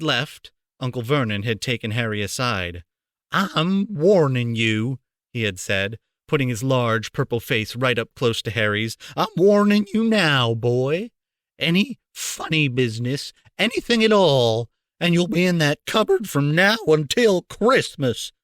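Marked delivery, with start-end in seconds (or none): 3.3-5.0 threat. A narrator's reading. Vernon threatening Harry. 9.2-18.3 threat. A narrator's reading. Vernon threatening Harry.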